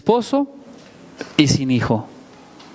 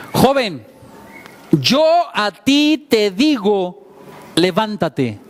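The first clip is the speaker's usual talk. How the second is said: slow, solemn command to rise; Jesus commanding; much slower than usual. Retold or imitated. Preacher voicing Jesus to the dead young man, a measured solemn command. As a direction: speak it as Jesus raising the dead youth. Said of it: "se acerca y le dice".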